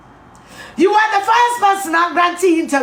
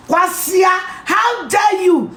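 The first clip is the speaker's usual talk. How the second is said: angry shout; slower than usual. Real, not acted. Ranting at Justin Kodua.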